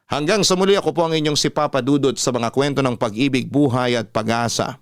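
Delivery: announcer closing the program; radio sign-off. Acted. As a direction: stretch out the show name. Radio host signs off show.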